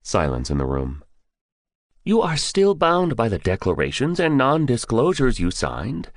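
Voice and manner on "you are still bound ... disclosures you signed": higher-voiced general snapping a warning; stern general barking. General warns the candidate of his signed oaths, barking. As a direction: bark the reminder like an officer. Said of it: "Silverhair barked".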